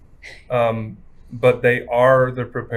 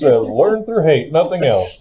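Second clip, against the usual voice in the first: put-on old-timey announcer voice, slow and louder; 1950s narrator; 3 semitones higher, 5 dB louder than usual. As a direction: intone it like a newsreel. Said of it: "He says".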